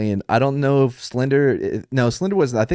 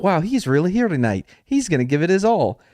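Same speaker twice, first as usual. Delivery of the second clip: lightly excited, higher-pitched quote; mock excitement; 6 semitones higher than usual. Host quoting his own reaction to a guest's promise, mock excitement. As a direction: act out being mildly impressed and excited. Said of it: "it almost made me excited".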